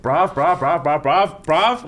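imitating a friend's panicked, rapid pleas; mock panic, rising on each repeat; spiralling. Retelling a friend's spiral at speed dating, mock panicked. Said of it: "he went off on a spiral".

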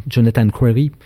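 French speaker attempting an English pronunciation; clumsy English accent. Real, not acted. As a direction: say Crary with an English r, in a rough English accent. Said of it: "mon accent anglais est catastrophique".

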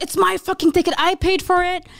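mock angry drunk. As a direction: play the indignant drunk buyer. Drunk friends fighting over ticket.

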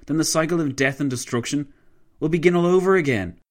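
heated, high-pitched tirade; shrieked outrage. A narrator's reading. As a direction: let fury push the voice up. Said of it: "he shrieked".

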